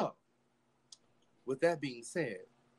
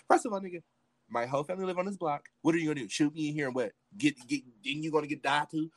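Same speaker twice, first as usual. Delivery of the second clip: raised-pitch retold confrontation; indignant challenge; 5 semitones higher than usual. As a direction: challenge them hotly, voice pushed up. Retold argument at gunpoint.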